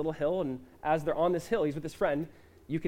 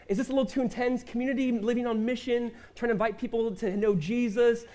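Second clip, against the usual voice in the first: mock whiny doubter; 5 semitones higher than usual.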